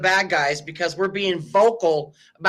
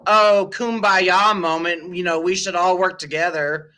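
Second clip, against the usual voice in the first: mocking kumbaya voice. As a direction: sneer at the peacemakers. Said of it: "pretending to be like this".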